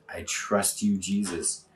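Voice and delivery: quiet whispered-toward devotion; soft response. Shown as a demonstration. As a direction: drop to a soft, intimate response. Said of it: "I'm gonna say".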